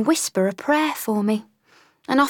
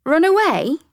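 high, loud incredulous repeat; mock-indignant echo; 12 semitones higher, 4 dB louder than usual. Washerwoman answering the sergeant, mock indignation. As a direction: throw the words back at him.

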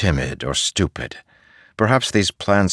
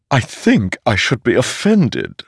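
higher, louder living sword voice; ringing metallic sword voice; 7 semitones higher, 4 dB louder than usual. A narrator's reading. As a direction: voice a talking magic sword. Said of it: "the sword said from Szeth's back".

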